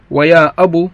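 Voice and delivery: يا أبو ending in u, ya abū. Shown as a demonstration. Teacher shows the damma form to students, clear demo. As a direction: round off يا أبو with a final u. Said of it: "بالضم".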